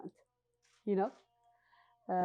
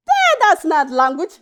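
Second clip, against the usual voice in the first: slow, loud, laughing protest; 9 semitones higher, 11 dB louder than usual. Real, not acted. Telling the listeners about her English, laughing loudly. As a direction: laugh through it.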